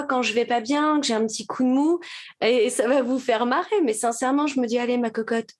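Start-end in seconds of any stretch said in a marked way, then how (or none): 4.8-5.5 rising into a high, bright cheer; coaxing self-pep talk. Retold or imitated. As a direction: coax yourself like a doting granny. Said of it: "je me parle comme ça des fois".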